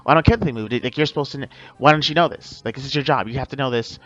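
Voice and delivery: loud, demanding rant as an irate shopper; angry customer. Retold or imitated. Irate customer yelling at a Target clerk, mock angry rant. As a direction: berate the clerk for not knowing.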